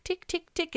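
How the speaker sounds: high, soft spoken ticks; ticking stopwatch sound. Shown as a demonstration. Host imitating the current affairs show's clock, ticking.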